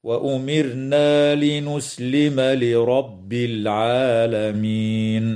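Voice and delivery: slow chanted recitation with tajweed rules; Quranic recitation. Shown as a demonstration. Tajweed teacher models the verse to students, slow melodic chant. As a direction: chant it slowly, light ر in وأمرنا and full ر in لرب. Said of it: "هكذا".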